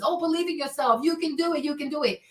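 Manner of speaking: softly mimicked cheerleading believer; lightly mock the soft-voiced encourager; hopeless optimist. Mimicking the lady urging hopeless belief, softly upbeat. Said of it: "this lady who wants you to be a hopeless".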